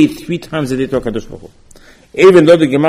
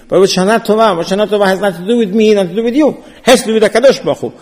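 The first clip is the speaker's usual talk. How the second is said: amused; 5 semitones higher, faster than usual. Real, not acted. Rhetorical mock of empty greeting.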